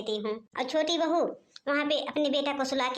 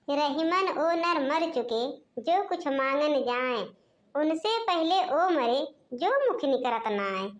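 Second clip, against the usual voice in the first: couplet recital. Acted.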